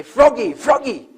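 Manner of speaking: high, loud call up the pole. Acted. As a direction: shout his name to the top. Crowd calling up to frog.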